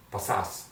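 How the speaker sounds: "Pasas" stressed on its final syllable; stress on last syllable. Shown as a demonstration. Teacher showing students the S ending, "Pasas" stressed on the last syllable. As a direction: put the weight on the second syllable of "Pasas". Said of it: "Go for the last syllable".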